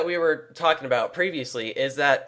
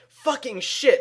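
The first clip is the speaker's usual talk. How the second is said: high startled swear; startled curse; 11 semitones higher, slower than usual. Retold or imitated. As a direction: blurt it out after a nick. Dad cut himself shaving, swears.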